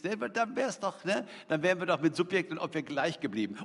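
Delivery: chuckling through the words; laughing. Real, not acted. Preacher laughing at rewriting the psalm, chuckling. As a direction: laugh at your own cheeky edit.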